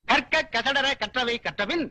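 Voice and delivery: slow, solemn recitation of a couplet; slow grave verse recital; Valluvar's voice. Acted. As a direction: intone it like the ancient poet speaking. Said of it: "இது வள்ளுவரோட குரல்".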